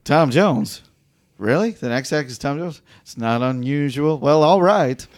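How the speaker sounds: lightly voiced smug club announcer, mocking; a sarcastic emcee sneering at the act's name; announcer impression. Cohost imitating the emcee introducing Paul, smug and mocking. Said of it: "I'll do an impression of something that used to enrage Paul".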